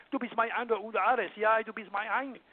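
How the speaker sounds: firm German counterpart to French sweet talk; warlike German. Shown as a demonstration. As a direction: say it in German with martial firmness. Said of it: "I can say the same thing in German".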